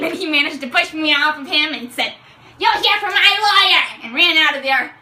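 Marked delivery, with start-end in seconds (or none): 2.6-3.8 mock threat. Quarterback shoving her off.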